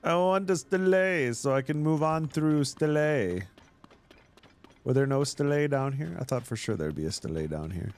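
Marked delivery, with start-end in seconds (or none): 0.0-3.4 hammy demand. Pretend. Hammed demand for stele.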